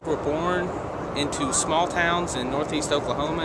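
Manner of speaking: flat robotic voice. Pretend. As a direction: speak like a robot. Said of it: "I'm talking like a robot".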